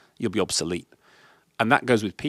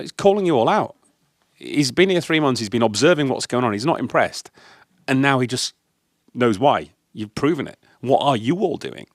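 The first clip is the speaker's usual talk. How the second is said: heated telling off; 2 semitones higher, 3 dB louder than usual. Retold or imitated. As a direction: hammer home the point to the team. Telling off the team.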